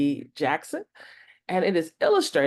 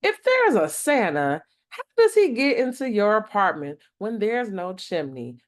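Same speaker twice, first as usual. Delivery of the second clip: a schoolkid's challenge, louder; lightly voiced kid, challenging; skeptical schoolkid; 4 semitones higher, 4 dB louder than usual. Deshaun taunting Deja about Santa, a touch louder and mocking.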